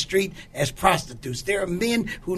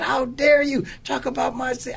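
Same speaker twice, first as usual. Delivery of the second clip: mildly indignant, pitch raised; retold indignation; 7 semitones higher than usual. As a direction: re-enact being upset and ready to tell on someone. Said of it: "I began to get upset about it".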